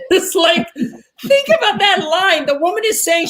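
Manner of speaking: high, loud, drawn-out through laughter; laughing while talking. Real, not acted. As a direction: crack up as you exclaim it. Teacher cracking up at the line.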